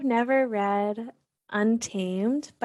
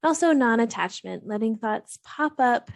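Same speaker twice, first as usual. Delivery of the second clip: calm, even meditation guidance with long pauses; guided meditation. Real, not acted. Host guiding listeners to settle and breathe, calm meditation voice. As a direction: gently lead listeners through breath and body, unhurried between phrases.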